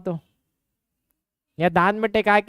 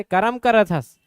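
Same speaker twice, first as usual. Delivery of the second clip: Chhattisgarhi speech; slower than usual. Retold or imitated. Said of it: "बचपन से हमको करम करम करके".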